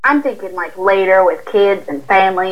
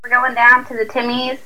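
Southern voice trying a Canadian line; a mild, earnest stab at Canadian; Canadian accent attempt. Shown as a demonstration. Southern woman repeating the Canadian line, a mild attempt. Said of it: "Try it".

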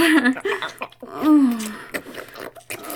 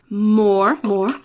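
demanding; 6 dB louder than usual. Acted. Demanding during oral.

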